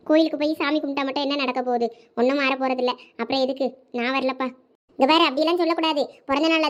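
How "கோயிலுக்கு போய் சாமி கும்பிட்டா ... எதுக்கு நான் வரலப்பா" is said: low, downcast protest; dejected refusal. Acted. Birthday child refusing to go to the temple, dejected and low. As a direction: refuse with the heart gone out of it.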